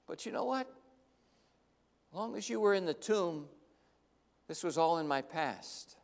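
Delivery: a hurt disciple muttering to Jesus; bitter Peter. Acted.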